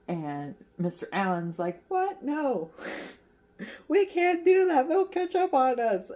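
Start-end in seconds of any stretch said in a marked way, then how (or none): 1.9-6.1 high, loud mock protest; shocked, pitched-up retort; imitating alarm. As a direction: squawk it like a hammed-up panicked objection. Acts out alarmed Mister Allen.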